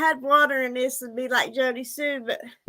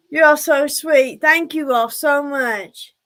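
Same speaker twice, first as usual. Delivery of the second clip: warm; 6 dB louder, slower than usual. Real, not acted. Thanking donors on stream.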